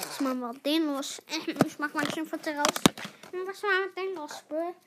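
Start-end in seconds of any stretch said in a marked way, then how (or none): 0.1-1.2 louder and fast, annoyed. Real, not acted. Loud fast exasperation. 3.3-4.7 loud. Real, not acted. Repeated louder.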